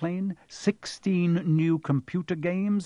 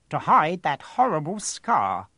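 Aunt Petunia; 3 semitones higher than usual. A narrator's reading. Petunia quoted, slow.

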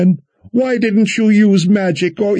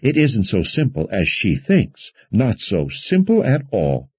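higher-pitched, fussing prattle; worried prattling; 6 semitones higher than usual. A narrator's reading. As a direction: ramble on, dismissive and worried. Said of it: "prattling with her worry".

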